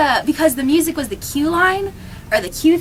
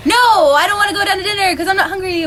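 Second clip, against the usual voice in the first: sassy; 6 semitones higher, 4 dB louder than usual. Retold or imitated.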